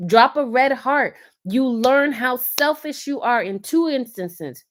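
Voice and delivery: slow, high preaching emphasis; preachy emphasis. Real, not acted. Speaker urging married women viewers, slow high preaching.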